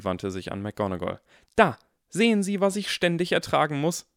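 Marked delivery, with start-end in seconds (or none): 1.5-4.1 put-on higher, louder whining boy; exasperated complaint. A narrator's reading. Harry complains to McGonagall, loud and exasperated. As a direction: appeal for sympathy, fed up.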